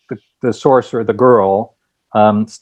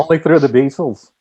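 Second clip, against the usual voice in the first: put-on Liverpool accent; 4 semitones higher than usual. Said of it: "That was famous-singer-esque".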